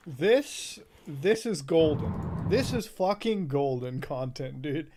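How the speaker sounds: thrilled. Real, not acted. Streamer thrilled after scare.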